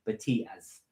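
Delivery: potatoes said Geordie-style as "Batias"; soft Geordie "Batias", ending in ee-uz; Geordie accent. Shown as a demonstration. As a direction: demonstrate a Geordie accent quietly. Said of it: "if you wanna do a Geordie accent".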